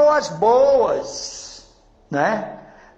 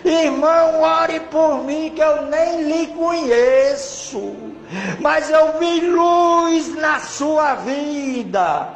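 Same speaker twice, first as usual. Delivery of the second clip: imitated tearful plea; 3 semitones higher, slower than usual. Crying stranger begs the brother for prayer, wailing plea. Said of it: "e chorando".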